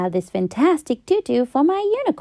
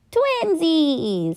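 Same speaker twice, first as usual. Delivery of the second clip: announce; 4 semitones higher than usual. Acted. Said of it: "and announced".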